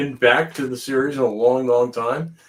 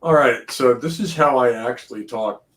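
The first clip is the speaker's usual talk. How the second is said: New England accent, let through; relaxed Boston accent; natural Boston accent. Shown as a demonstration. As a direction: talk like a Boston native. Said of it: "can I drop my accent real quick".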